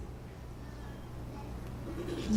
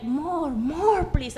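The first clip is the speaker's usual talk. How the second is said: begging dog; 3 dB quieter, much slower than usual. Acted. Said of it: "He was like".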